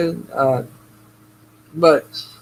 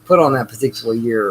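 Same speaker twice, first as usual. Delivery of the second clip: sarcastic. Retold or imitated. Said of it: "I'll say something derogatory like".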